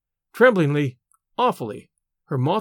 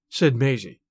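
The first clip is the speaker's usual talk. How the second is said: ordinary delivery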